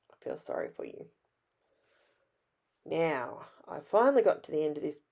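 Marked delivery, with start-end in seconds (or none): 0.1-1.1 breathy whisper, soft and sincere; whispered sympathy. Real, not acted. Crafter with covid whispers sympathy to sicker viewers. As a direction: whisper it like a quiet condolence.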